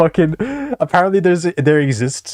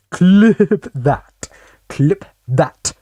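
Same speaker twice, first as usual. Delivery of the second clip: hyped call; 5 semitones higher, 4 dB louder, much slower than usual. Pretend. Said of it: "whatever the fuck streamers say".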